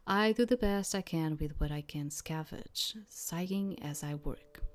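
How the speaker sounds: measured literary read-aloud; narrating a story line by line; story narration. A narrator's reading. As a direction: read it as a first-person tale, with pauses.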